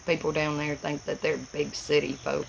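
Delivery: easy Appalachian country speech; appalachian accent. Real, not acted. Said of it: "I sound like a hillbilly".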